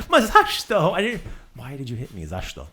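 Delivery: loud high outcry then trailing off; mock indignation. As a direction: complain after a fender bender. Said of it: "fender bender".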